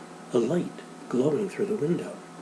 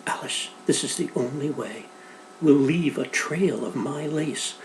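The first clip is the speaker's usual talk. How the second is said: soft reassurance; 2 semitones higher, 4 dB quieter than usual. Acted. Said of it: "Fiona said softly".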